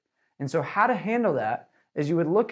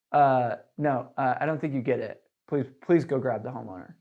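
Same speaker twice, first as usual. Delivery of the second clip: certain and firm; 4 semitones lower than usual. Shown as a demonstration. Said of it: "say it with, like, some certainty".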